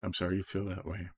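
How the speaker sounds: soft, gentle reply to an angry person; gentle answer demo. Shown as a demonstration. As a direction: answer softly to calm them down. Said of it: "A healing tongue".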